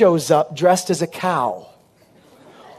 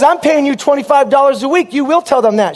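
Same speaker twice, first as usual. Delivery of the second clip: mock angry preacher; 5 semitones higher than usual. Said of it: "So he says".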